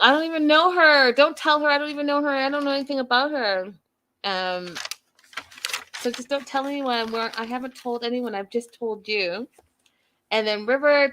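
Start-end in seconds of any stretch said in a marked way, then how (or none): 0.0-9.5 higher, urgent pleading sister; worried sister. Retold or imitated. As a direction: beg him to keep it secret. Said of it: "Winter's like".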